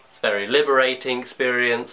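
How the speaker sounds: slightly out of breath; talking while out of breath. Real, not acted. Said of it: "so I'm out of breath from talking".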